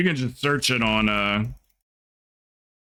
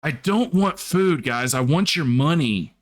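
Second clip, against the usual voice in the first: mock demanding streamer; 3 semitones higher than usual. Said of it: "repeating her line".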